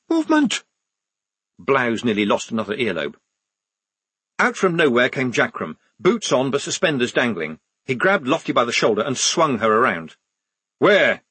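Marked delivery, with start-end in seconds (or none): 0.1-0.6 very high, urgent half-shout; shouted whisper. A narrator's reading. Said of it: "trying to shout a whisper". 10.8-11.2 loud, higher one-word demand. A narrator's reading. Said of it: "he demanded".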